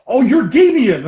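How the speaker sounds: high, loud, drawn-out realisation; acted dawning recognition. Rival buyer realising whom he has met, acted surprise. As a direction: stretch out the mock discovery.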